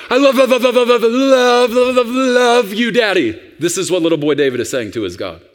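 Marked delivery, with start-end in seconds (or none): 0.1-3.4 put-on excited child. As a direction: burst in gushing like an adoring little kid. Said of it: "My children would burst through from the other room".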